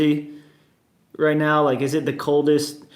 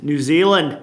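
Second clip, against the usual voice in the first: attempted New Zealand accent landing as Australian; 4 dB louder than usual. Shown as a demonstration. Streamer greeting viewers from New Zealand, slipping into Australian accent. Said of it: "Wait, that was Australia".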